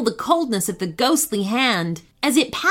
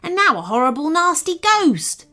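mouse relishing how nasty he was; small mouse voice, lightly spooky. Acted. Mouse explains the master.

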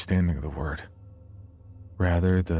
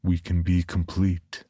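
very slow, lightly voiced eerie figure; Paul; slower than usual. A narrator's reading. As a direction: draw out each phrase as a creepy invitation. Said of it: "deep voice that I knew to be Paul's".

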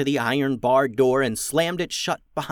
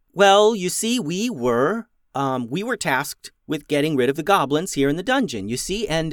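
flustered, higher, halting explanation; stumbling over every word, caught out; nervous stammer; 5 semitones higher, 5 dB louder than usual. Acted. Beatrice fumbles an excuse to the goblins, stammering. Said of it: "still stuttering".

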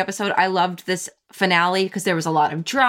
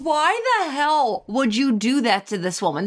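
laughing; 3 semitones higher than usual. Real, not acted. Laughing in disbelief.

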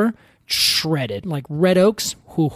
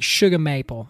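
mangled New England accent, "shugah maple"; Boston attempt slipping toward Georgia; botched Bostonian accent; 3 semitones lower than usual. Shown as a demonstration. Showing co-host how to say it, botched Bostonian accent. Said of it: "sounded like a Bostonian who was raised in Georgia".

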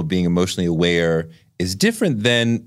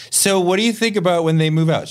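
higher-pitched imitation of a neighbor; inquisitive neighbor; 7 semitones higher than usual. Neighbor asking a parent about kids leaving, higher-pitched mimicry. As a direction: put on a neighbor's eager question. Voices neighbor's nosy question.

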